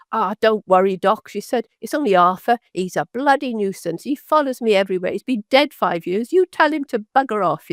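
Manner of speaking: attempted Cockney woman's accent. Cockney patient reassuring the doctor about Arthur, attempted Cockney accent. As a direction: imitate a Cockney patient, not quite managing it. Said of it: "in a Cockney accent, I can't".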